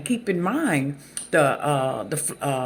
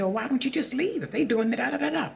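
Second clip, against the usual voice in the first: mock skeptical question; 10 semitones higher, much faster than usual. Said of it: "a lot of people say".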